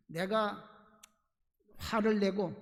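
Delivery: usual speaking voice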